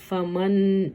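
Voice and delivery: فمن said as "fa-man" with the n plainly heard; clear nun sound. Shown as a demonstration. Teacher demonstrating nun sakin, n clearly sounded. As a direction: let the n ring at the end of فمن. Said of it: "نون کی آواز آ رہی ہے".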